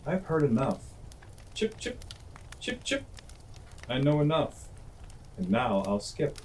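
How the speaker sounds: high, light chip-chip bird voice; a hasty sparrow chirping goodbye. A narrator's reading. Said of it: "cried the Sparrow".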